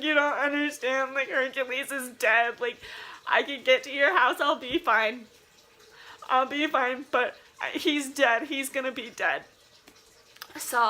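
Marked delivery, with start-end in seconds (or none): 0.0-9.4 frantic retelling. Retold or imitated. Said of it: "And I'm like".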